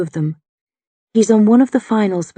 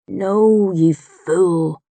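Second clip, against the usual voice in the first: snapping; much slower than usual. A narrator's reading. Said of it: "the druid snaps".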